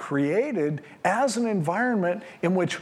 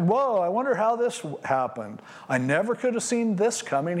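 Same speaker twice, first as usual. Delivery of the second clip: higher, hammed-up mock surprise; mock shocked; 5 semitones higher than usual. Preacher mimics people pretending to be shocked, hammed-up surprise. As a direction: play the fake innocent who never saw it coming. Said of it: "you're gonna act shocked".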